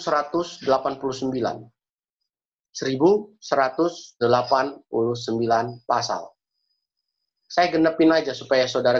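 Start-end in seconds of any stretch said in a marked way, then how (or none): 2.7-6.3 slow, one number at a time; slow, deliberate repeat. Shown as a demonstration. Preacher repeats a chapter count for listeners, slow and deliberate. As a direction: spell out the figure with pauses between words. Repeats figure slowly for the congregation.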